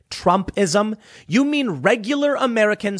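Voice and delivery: incredulous scoff. Real, not acted. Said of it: "I'm not playing these stupid games".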